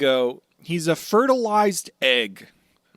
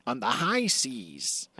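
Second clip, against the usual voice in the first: Buggy. Acted.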